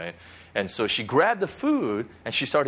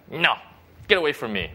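mock stubborn refusal; imitating a defiant child; 2 semitones higher than usual. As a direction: push them away with an abrupt no. Acting out our refusal to God.

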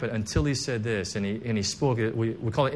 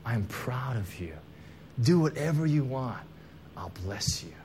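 voice of God; 3 semitones lower, 6 dB quieter than usual. Retold or imitated. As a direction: speak it tenderly, like a father blessing a son. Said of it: "Father God laid his hands on me and said".

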